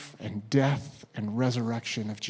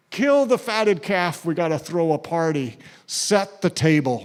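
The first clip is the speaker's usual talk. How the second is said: joyful command; 2 semitones higher, 5 dB louder than usual. Acted. Father joyfully ordering a feast.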